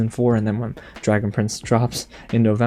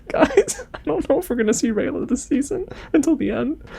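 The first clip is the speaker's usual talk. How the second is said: upset aside; 14 semitones higher than usual. Real, not acted. Fan aside, upset by the letter.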